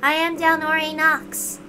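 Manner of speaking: a composed, courteous officer of heaven; formal knight Dalnor. Acted. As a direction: speak each word with stately slowness. Dalnor voiced in read story.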